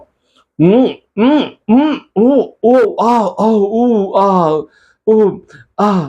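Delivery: slow, high savoring hums and oohs. Acted. Monk tasting heavenly fruit, high drawn-out yum sounds. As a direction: hum with delight while chewing.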